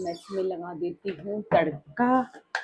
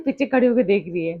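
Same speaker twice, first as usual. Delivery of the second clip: ordinary talk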